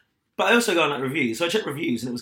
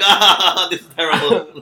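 loud pained groan, higher; mock groan; 5 semitones higher, 12 dB louder, slower than usual. Friends groaning together at an awful play, loud mock groan. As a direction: groan it out in disgust. Group reaction to bad play.

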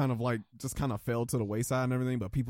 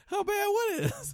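high, giggling question; laughing. Real, not acted. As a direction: ask through giggles. Asked while laughing.

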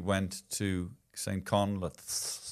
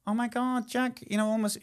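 panicked phone call; 13 semitones higher than usual. Retold or imitated. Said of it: "you call me up".

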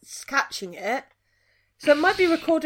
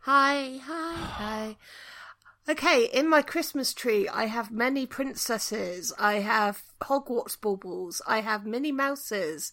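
breaking up over the line; bluetooth cutting out; 3 semitones lower than usual. Real, not acted. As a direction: test babble on a failing connection. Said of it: "I'm just babbling so you know how my thing is".

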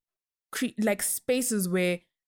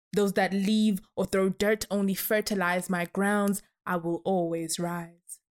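measured spoken-word delivery; poem recitation. Acted. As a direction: recite it like a performance poet.

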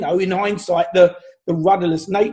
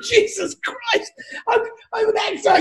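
mock exasperation; 14 semitones higher than usual. Actor's stunned reaction, retold.

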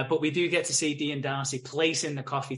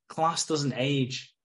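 1 slow smooth line; much slower than usual. Retold or imitated. Darcy voiced showing off.

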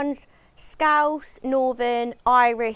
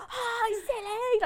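high sing-song; 9 semitones higher, 4 dB quieter, much slower than usual. Retold or imitated. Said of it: "I'm like".

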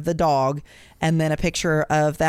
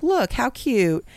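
higher, drawn-out mock cooing; imitated cooing; 6 semitones higher, slower than usual. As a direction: coo it slowly, imitating a smitten wife. Wife showing off coyote as cute.

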